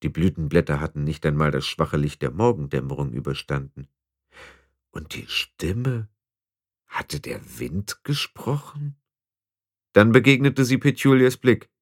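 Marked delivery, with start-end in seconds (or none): 4.9-9.0 hushed. A narrator's reading. Tiffany wonders quietly.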